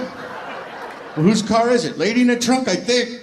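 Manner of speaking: high and loud, casual; cocky answer. Acted. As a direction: say it like nothing's odd. Officer and driver trading lines.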